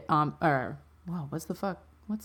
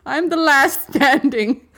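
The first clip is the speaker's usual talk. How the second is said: put-on very old man; 6 semitones higher, 3 dB louder than usual. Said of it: "Can you be Professor Dicklecunt real quick".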